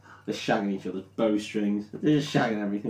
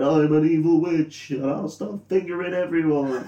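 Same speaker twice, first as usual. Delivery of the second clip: hammed-up evil queen rant, slightly higher; evil witch; 6 semitones higher than usual. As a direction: ham up a cackling sorceress losing it. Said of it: "and starts going".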